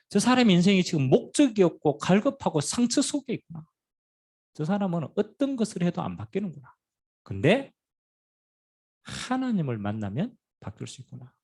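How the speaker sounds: proclaimed realization. Retold or imitated. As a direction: preach the insight out to the room.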